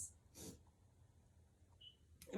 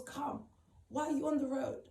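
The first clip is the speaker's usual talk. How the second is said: slightly raised, emphatic urging, retold; urgent insistence; 4 semitones higher than usual. Friend tells her to get off the road, urgent insistence. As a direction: imitate a friend insisting she come.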